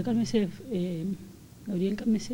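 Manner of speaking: put-on slowed down, soothing a furious older man; slow calming plea. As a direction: drag it out gently, trying to calm him. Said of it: "Le decía". (lento y apaciguador, calmando a Gabriel)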